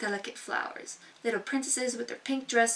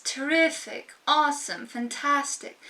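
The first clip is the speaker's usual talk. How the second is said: higher, bubbly listing; gushing adjectives; 4 semitones higher than usual. Shown as a demonstration. Showing viewers empty adjectives, lightly gushing. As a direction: gush each word like a cheerleader. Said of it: "what we call empty adjectives".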